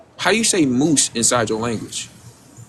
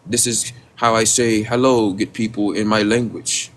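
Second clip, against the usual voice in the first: slow, lower, mildly mocking quote; mock panel speaker; 4 semitones lower than usual. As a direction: lightly put on a slow, stilted speaking voice. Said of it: "nobody talks like that".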